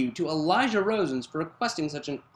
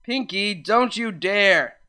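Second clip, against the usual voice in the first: male voice warning; 4 semitones higher, 5 dB louder, slower than usual. Acted. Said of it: "A male voice".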